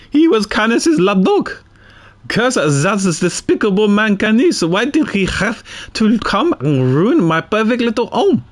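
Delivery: lightly voiced unhinged villain lament; bitter accused woman. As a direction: curse the man who ruined everything. Voicing villain's breakdown rant.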